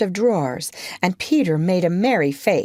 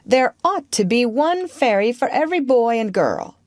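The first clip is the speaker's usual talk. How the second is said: put-on good-natured boy explaining, pitch lifted; lightly voiced, good-natured Peter; 6 semitones higher, 3 dB louder than usual. A narrator's reading. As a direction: explain it kindly in a higher character voice. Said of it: "he went on good-naturedly".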